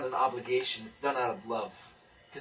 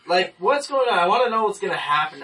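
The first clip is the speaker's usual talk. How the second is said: laughing; 8 semitones higher, 9 dB louder than usual. Real, not acted. Laughing at own need for control.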